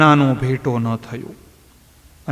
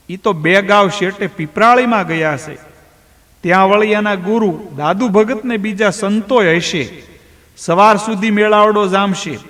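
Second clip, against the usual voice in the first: lightly voiced villager, raised and teasing; mocking villager; 5 semitones higher than usual. Villager laughs at Rambhai's trust in Dhano, light mocking voice. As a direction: tease him for believing his son.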